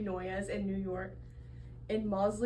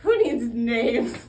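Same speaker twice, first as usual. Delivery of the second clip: loud, slow, fiery reformer; shouting reformer; 3 semitones higher, 9 dB louder, slower than usual. Acted. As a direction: proclaim it loud and slow like a zealot. Zealous reformer shouting message.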